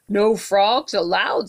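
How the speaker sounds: slow, squeaky little mouse voice. Acted. Mouse refuses the frog, slow squeaky voice. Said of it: "squeaked the mouse".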